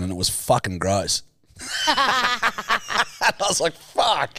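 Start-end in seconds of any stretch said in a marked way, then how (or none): 1.6-4.4 laughing. Retold or imitated. Laughing while retelling his reaction.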